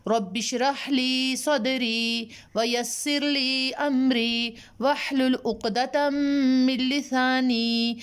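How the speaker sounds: slow, chanted Arabic recitation; Quranic recitation. Acted. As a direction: recite it slowly like a prayer. Recites opening prayer slowly. (धीमी, सुरीली क़ुरआनी तिलावत)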